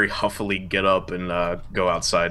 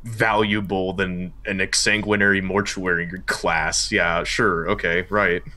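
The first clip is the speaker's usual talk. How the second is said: sarcastic; slower than usual. Acted. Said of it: "I lean back and I'm like".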